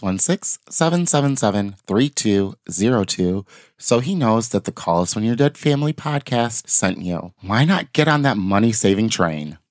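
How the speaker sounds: lightly polished podcast sponsor read; a touch of ad-read delivery. Acted. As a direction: pitch the sponsor to listeners. Reads the sponsor ad.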